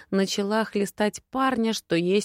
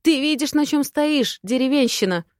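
bellowed at the oaf, higher and louder; roaring; 6 semitones higher, 4 dB louder than usual. Acted. Lady roars at the oaf standing on her nightgown, loud and high. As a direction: roar it down at him in outrage. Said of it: "Взревела я".

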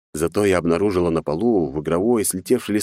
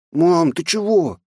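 put-on high, slow small boy voice; puzzled frightened boy; scared child; 11 semitones higher, 4 dB louder, slower than usual. A narrator's reading. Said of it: "испуганно уставился на меня". (испуганный мальчик)

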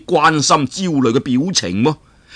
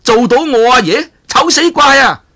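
much higher, louder laughing scorn; mocking laugh; 9 semitones higher, 5 dB louder than usual. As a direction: laugh in his face and mock him. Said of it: "段譽就話啦". (段譽大笑嘲弄，聲調好高)

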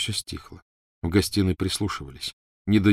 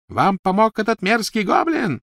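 high, loud furious shriek; shrieking accusation; 6 dB louder than usual. A narrator's reading. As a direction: spit the accusation.

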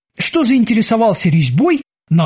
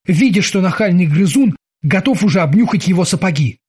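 plain reading voice

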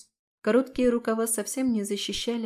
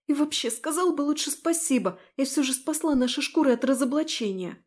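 squeaky retort; 5 semitones higher than usual. Acted. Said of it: "сдавленно пропищать".

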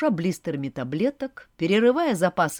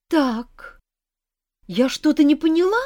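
loud, higher, huffy indignation; indignant outburst; 10 semitones higher, 8 dB louder than usual. A narrator's reading. Heroine loudly indignant at the demon's mocking show. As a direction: bristle up, demand an answer. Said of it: "возмутилась я хриплым".

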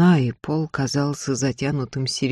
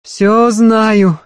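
louder, higher, leaning on всё; fervent maid's insistence; passionate assurance; 6 semitones higher, 8 dB louder than usual. Acted. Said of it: "страстно заверила Марфа".

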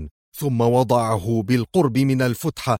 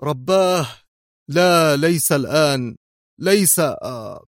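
higher, horrified broken words; terrified mutter; 4 semitones higher than usual. A narrator's reading. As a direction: falter in dread, ending on a groan. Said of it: "وهو يغمغم في ارتياع". (بارتياع)

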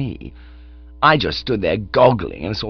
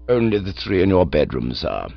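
calm valet; 5 semitones lower than usual. Acted. Jeeves answers calmly.

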